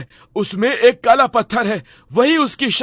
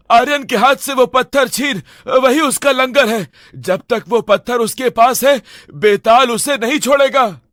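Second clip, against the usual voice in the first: urgent shout. Acted. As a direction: call across the room in a hurry. Urgent instructions mid-fight.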